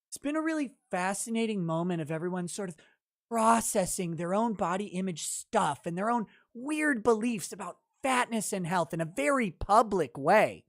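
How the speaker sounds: quiet, fast mocking rattle-off of a quote; sneering fast mumble; mocking read. Shown as a demonstration. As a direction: rush through it to show how silly it sounds. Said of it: "They all talk like this".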